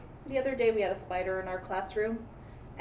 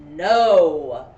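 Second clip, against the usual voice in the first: shouted no; 4 semitones lower, 14 dB louder than usual. A narrator's reading. Dramatic interjection in story.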